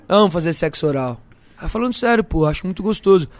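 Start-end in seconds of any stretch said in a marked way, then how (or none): 0.0-1.2 laughing. Shown as a demonstration.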